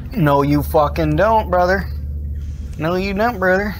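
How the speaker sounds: a hint of macho bravado calling him brother; lightly voiced swagger at the monster; tough-guy taunt. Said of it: "I don't know why I'm talking like that".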